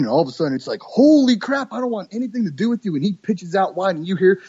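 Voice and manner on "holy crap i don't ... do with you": high, fast startled duck voice; voicing the duck. Hunter voices a duck veering away in alarm, high and quick. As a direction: blurt it like a spooked bird.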